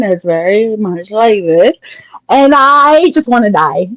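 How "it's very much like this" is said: mild mock monotone. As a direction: imitate a droning coworker, slowly. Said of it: "she has this monotone voice".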